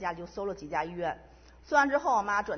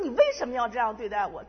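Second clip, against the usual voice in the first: louder, tearful cry of why to God; mild retold weeping outcry, louder; tearful plea; 2 semitones higher, 6 dB louder than usual. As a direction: retell the crying reproach, voice raised. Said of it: "一边说我就一边哭".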